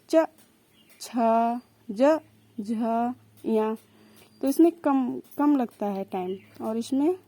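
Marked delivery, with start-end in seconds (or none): 0.1-3.8 च short, छ with a puff of breath; letter sounds demo. Shown as a demonstration. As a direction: sound out च, छ, ज, झ clearly, aspirates breathy. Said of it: "ऐसे ही बोल के देखिए".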